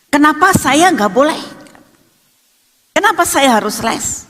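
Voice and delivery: put-on high-pitched jealous child's complaint; disgruntled protest. Older sister asking why she must attend lessons, disgruntled protest. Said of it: "ada rasa tidak puas".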